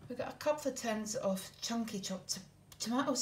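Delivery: breathless, short of air; out of breath. Real, not acted. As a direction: talk while catching your breath. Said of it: "Sorry, I'm really breathless".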